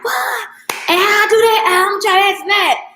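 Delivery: high, loud surprised client voice. Retold or imitated. Retelling a salon client asking about sex, high and loud amazement. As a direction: squeal out an amazed client question. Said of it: "they like".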